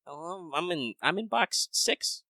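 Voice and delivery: high, soft mock-cheerful voice; sarcastic cheer. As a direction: fake excitement about tiny progress. Mocking own slow box progress.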